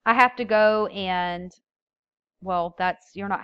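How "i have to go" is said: "have to" run together as "hafta"; casual, louder "have to"; poor articulation. Shown as a demonstration. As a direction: say "have to" as one merged word. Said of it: "So I might say".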